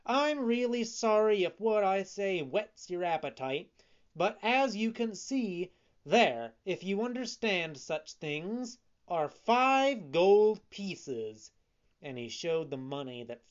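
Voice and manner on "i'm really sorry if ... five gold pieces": high, emphatic retort from a puppet; indignant. A narrator's reading. Puppet showing his gold to the scoffers, indignant. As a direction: prove them wrong, pitched up and insistent. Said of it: "cried Pinocchio angrily".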